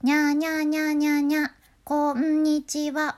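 high falsetto nya. Shown as a demonstration. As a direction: mew it up high and carry the pitch. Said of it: "裏声っぽく出すのがポイント". (裏声っぽく高く)

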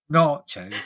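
"nachos" said slowly with a long "ah"; trying out pronunciation. Shown as a demonstration. Presenter testing how to say "nachos", careful and drawn out. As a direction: draw out the first vowel of "nachos". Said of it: "correcting my pronunciation of that".

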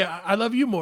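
sweet couple's goodbye; lovey-dovey. Pretend. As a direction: coo it like a smitten partner.

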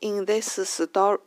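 slow "in this story", each word set apart; unlinked learner English. Shown as a demonstration. Host shows how people generally speak, unlinked learner English. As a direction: sound out every word of "in this story" separately. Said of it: "people generally speak like this".

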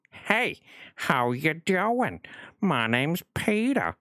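slow, high Peter Griffin voice; Peter Griffin impression. Shown as a demonstration. Streamer demos his Peter Griffin voice, slow and high. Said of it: "as close as I can get to Peter Griffin".

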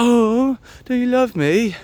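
high-pitched mock-sweet pleading; imitated needy wife. Imitating wife asking husband for love, high and needy.

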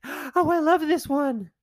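high, gushing, slow "Oh, I love this one"; gushing wife. Retold or imitated. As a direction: gasp then gush with delight. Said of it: "and she's like".

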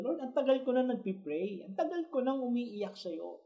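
high, pleading plea to God, slowing toward the end; voicing Habakkuk's weary, pleading prayer; pleading prophet. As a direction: cry out to the Lord, begging for justice. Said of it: "sinasabi ni Habakkuk dito".

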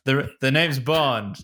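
slow suave spy line, lightly voiced; mild Bond impression; corrected Bond line. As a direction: say the catchphrase properly, slow and cool. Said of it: "I said it the wrong way around".

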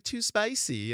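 high-pitched mock kid's complaint; complaining child. Daughter rejecting food at dinner, high child imitation. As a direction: whine it high like a small child.

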